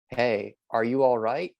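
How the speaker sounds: slow, gentle, caring check-in; sincere concern. Shown as a demonstration. Teacher gently checking on an upset student, sincere. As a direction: ask it like you truly care. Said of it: "not in a sarcastic way".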